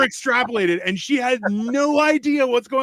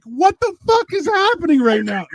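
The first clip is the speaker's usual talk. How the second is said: high-pitched baffled outcry; retold bewilderment; 7 semitones higher than usual. Husband on shrooms baffled by his wife, high bewildered outburst. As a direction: pitch it up in mock disbelief.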